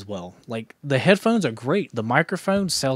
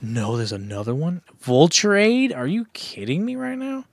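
disbelief; 4 semitones higher than usual. Real, not acted. Frustrated at another game level.

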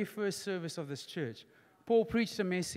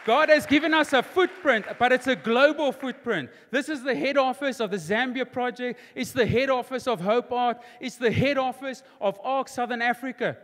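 raised pitch, building list; rousing preaching; 4 semitones higher, 6 dB louder than usual. Real, not acted. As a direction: proclaim each achievement to the congregation. Preaches at full force.

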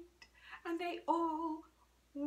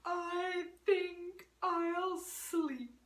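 put-on old cat; slower than usual. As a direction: purr out a tired old cat.

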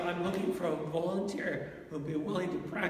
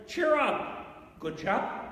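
lightly put-on English chap, starting high; a hint of hearty old-fashioned English; old English expression; 5 semitones higher, slower than usual. Preacher illustrating good cheer to the congregation, in lightly English style. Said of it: "to use an old English expression".

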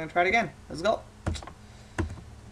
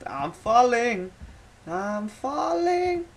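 slow dramatic wail; 4 semitones higher, 3 dB louder, much slower than usual. Pretend. Character falling.

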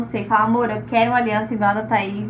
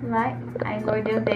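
whispering; 5 dB quieter than usual. Real, not acted. Whispered remark while fitting ring.

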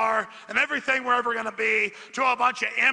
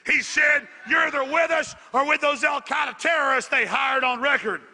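rallying shout; 3 semitones higher than usual. Real, not acted.

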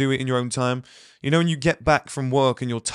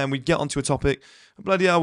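usual speaking voice

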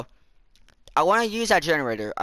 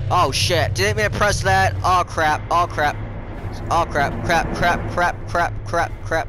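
oops-panic chant of crap; panicked crap; 3 semitones higher than usual. Real, not acted. Pressed wrong button in panic.

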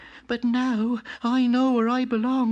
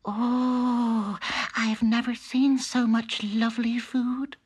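higher voice bursting with wonder; amazed cry; 11 semitones higher, slower than usual. A narrator's reading. Country mouse seeing the party table, higher and amazed. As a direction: marvel at the feast. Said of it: "cried Country Mouse".

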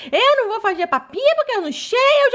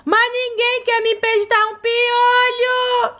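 mock complaint; slower than usual. Doll complains to viewers.

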